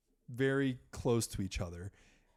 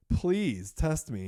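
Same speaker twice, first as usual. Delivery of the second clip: slow, louder begging; pleading; 5 semitones higher, 4 dB louder, much slower than usual. Retold or imitated. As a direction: drag it out, begging. Begging the doctor for tests.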